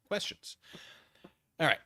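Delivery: ordinary talk, nothing marked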